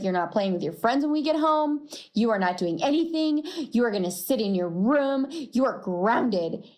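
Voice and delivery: fast, firm mom telling off; stern scolding. Retold or imitated. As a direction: lay down the law to your kid. Mom grounding son in car.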